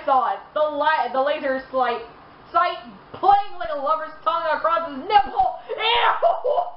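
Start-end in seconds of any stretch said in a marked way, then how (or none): 2.5-5.6 words breaking up with laughter as you read; can barely get the line out for laughing; laughing while reading. Real, not acted. 5.7-6.6 a high, sharp yelp of disgust. Real, not acted. Disgusted reaction to fan fiction.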